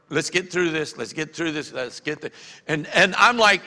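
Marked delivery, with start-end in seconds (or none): 0.1-2.3 fading to much softer, trailing off; bored mutter. Retold or imitated. Congregation sitting through the sermon, mock-bored mumble fading out. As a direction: mumble it as if enduring the service. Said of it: "sitting there going".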